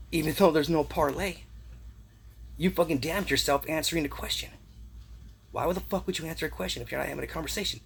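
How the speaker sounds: scolding the listener in frustration; angry rising scold; heated rant. Real, not acted. Ranting angrily at the listener.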